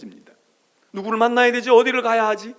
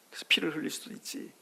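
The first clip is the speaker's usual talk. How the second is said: whispered aside; 3 semitones lower, 10 dB quieter than usual. Real, not acted. Aside about a child falling.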